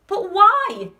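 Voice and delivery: high, loud protesting question; shout. A narrator's reading. Passengers all question Wonka at once, shouting. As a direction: shout it in alarm. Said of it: "they all shouted at once".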